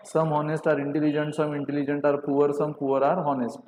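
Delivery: slow, spaced-out dictation of the statements. Shown as a demonstration. Teacher dictating to students, slow and deliberate. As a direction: spell it out slowly for the class. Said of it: "और सम को हम ऐसे represent करते हैं".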